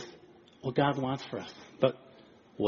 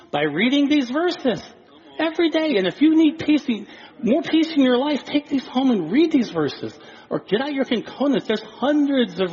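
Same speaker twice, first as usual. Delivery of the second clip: fervent preaching; 8 semitones higher, 3 dB louder than usual. Acted. Preacher urging the church to read scripture, fervent. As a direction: urge the church to read, building.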